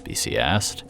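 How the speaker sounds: a lightly voiced B C, shocked and blunt. A narrator's reading. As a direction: speak up in dismay at her friend. B C voiced in dialogue.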